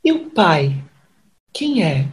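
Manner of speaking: loud challenging question; loud demand. Acted.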